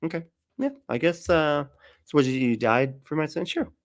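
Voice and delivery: high, casual mock Musk; lightly voiced offhand Musk; mock shrugging Musk. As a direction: agree lazily, why not.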